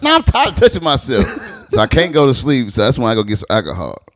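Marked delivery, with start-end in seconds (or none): 0.0-1.2 laughing quote. Retold or imitated. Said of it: "I'm like".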